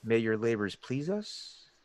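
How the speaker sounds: a hint of a hooded stranger, slow and hushed; deep gravelly voice. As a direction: murmur it slowly from deep inside a hood. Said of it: "it's in this deep, gravelly voice".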